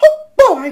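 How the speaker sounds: high, squeaky cartoon voice, squeaked out loud. Showing the impressions they can do, starting with Mickey Mouse: Mickey Mouse voice. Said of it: "let's say Mickey Mouse".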